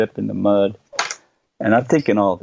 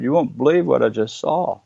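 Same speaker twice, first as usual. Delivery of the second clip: retold excitement; 4 semitones higher than usual. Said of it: "I was excited".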